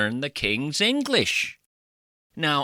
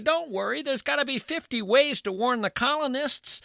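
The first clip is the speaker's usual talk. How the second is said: much higher, reassuring singsong; high singer voice; 11 semitones higher than usual. Acted. The singer reassuring Revere with fifty ways, high singsong. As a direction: lift it up and lilt the list. Comic voicing of a singer.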